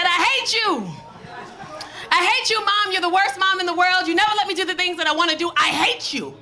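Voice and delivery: put-on loud furious teen; teen angry yell. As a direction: scream it at mom. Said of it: "And she said".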